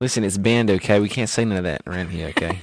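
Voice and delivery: put-on loosely held Australian accent; mock-firm Australian accent. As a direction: put on a slipping Aussie accent. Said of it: "I'm really losing the Australian accent".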